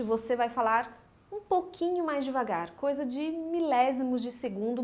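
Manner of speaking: usual speaking voice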